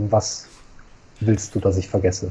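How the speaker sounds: low, even, toneless monotone. Playing a character who looks deep into another man's eyes, speak in a monotone voice. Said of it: "spricht mit einer monotonen Stimme".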